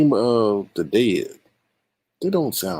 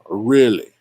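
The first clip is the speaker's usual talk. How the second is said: sarcastic disbelief; 2 semitones higher, much slower than usual. Real, not acted. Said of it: "this is how I'm looking right now".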